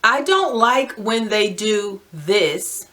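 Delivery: slow, deliberate dictation of the phrase; slowly dictating a template sentence. Shown as a demonstration. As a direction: spell out "I don't like when they do this" slowly, word by word, as if for writing it down. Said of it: "And write this phrase out".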